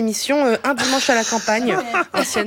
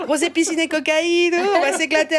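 dreamy mock idyll; 7 semitones higher than usual. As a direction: sell the countryside dream tongue-in-cheek.

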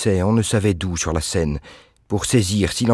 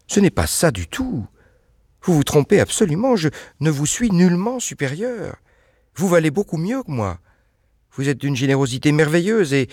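Anne, voix nettement plus aiguë; voix d'Anne aiguë; 8 semitones higher than usual. A narrator's reading. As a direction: jeune femme qui proteste avec ferveur. Anne's voice in story. (Anne proteste, voix haute et fervente)

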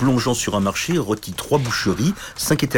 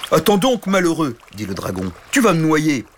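dragon bourru bienveillant; 5 semitones higher than usual. Acted. Dragon console le chevalier.

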